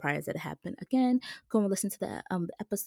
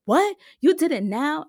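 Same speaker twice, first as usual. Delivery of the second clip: surprised; 10 semitones higher, 8 dB louder than usual. Retold or imitated. Mom hears news by phone.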